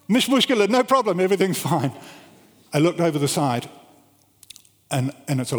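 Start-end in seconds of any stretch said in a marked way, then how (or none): 0.1-1.9 high reassuring shout, easing off at the end; retold breezy call from the roof; calling back down. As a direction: shout down that all is well.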